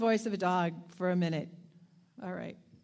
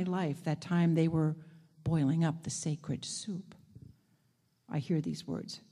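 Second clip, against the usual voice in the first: story narration; slower than usual. A narrator's reading. Reading story aloud.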